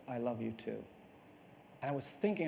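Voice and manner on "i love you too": low, soft voiced near-whisper; retold whisper. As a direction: say it softly and smoothly, as if into an ear. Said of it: "whispered flawlessly in my ear".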